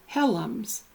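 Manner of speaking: "Helms" said in two syllables, HELL-ums; hidden vowel added. Retold or imitated. Showing the Union County surname, extra vowel in "Helms". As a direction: slip an uh between l and m in "Helms". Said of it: "This practice is sometimes carried over into English words".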